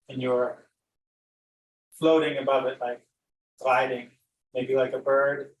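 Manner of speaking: unhurried meditation guide with long pauses; guided meditation. Acted. Teacher guiding listeners to glide over an imagined valley, unhurried meditation voice. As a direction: lead them gently through the imagery, leaving space between phrases.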